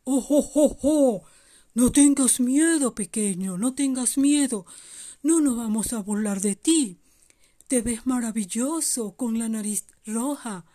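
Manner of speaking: voz levemente actuada de Santa que consuela; Santa Claus tranquilizador. Acted. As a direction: empieza sonoro y acaba más sereno. (Santa Claus tranquilizando al renito)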